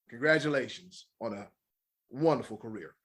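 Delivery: gasping after a long list; out of breath. Real, not acted. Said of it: "I almost passed out".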